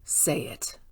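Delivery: whispered, slow command to stop; hushed warning. Acted. Boss hushing Andrew before he names the files, whispered. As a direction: cut him off in a hushed whisper. Boss silencing underling about secret.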